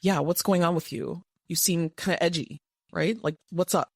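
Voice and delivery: brisk, sharp challenge to a partner; sharp, edgy. Shown as a demonstration. Coach shows how not to address an upset partner, sharp. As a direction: confront them with a slightly edgy tone. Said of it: "it's kind of sharp".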